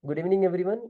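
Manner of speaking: quick, simple greeting to a group; brief greeting. Shown as a demonstration. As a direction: greet the room briefly, lifting at the end. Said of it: "greet करो यार".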